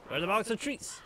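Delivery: playful singsong rise on treats; sing-song. Acted. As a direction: coo it like asking a dog. Repeats question sing-song to pet.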